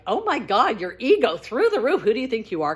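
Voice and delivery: retold indignant comment with swooping pitch; mock indignation. Reader scoffing at the author's book, mock indignant. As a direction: imitate a reader taking offence, lilting emphatically.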